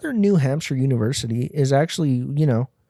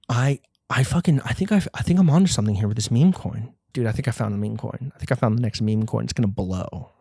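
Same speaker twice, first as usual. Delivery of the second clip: imitating a crypto bro; 2 semitones lower, 3 dB quieter than usual. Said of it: "another one be like".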